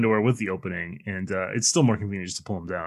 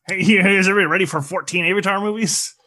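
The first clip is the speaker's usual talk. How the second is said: high-pitched goofy hype-man impersonation; James Cameron; 8 semitones higher, 3 dB louder than usual. Retold or imitated. Director hyping fourteen sequels to everybody, goofy high voice. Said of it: "He has a goofy voice".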